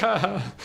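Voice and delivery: high-pitched mock "ha, ha"; put-on chuckle, retold; imitated laugh. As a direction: act out his laugh in words. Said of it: "like, laughing".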